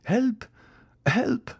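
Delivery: very high, panicked call; stifled cry for help. A narrator's reading. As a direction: call for help, pitch leaping up. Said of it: "cried she in a stifled voice".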